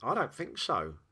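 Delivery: lightly pondering disagreement; musing. Acted. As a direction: muse it aloud to yourself. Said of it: "Polo mused".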